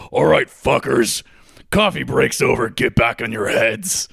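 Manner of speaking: huge booming voice from above; magically amplified voice. Acted. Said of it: "gigantic booming voice from above".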